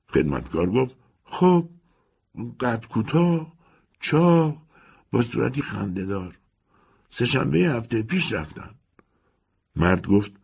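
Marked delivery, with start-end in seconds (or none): 1.2-8.7 put-on higher, old housekeeper answering curtly. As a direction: play the landlady's servant, a bit bored. Housekeeper describes former tenant.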